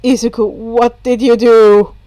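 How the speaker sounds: put-on a tired boy who'd rather not ask; deadpan Hitoshi. A narrator's reading. Hitoshi continues.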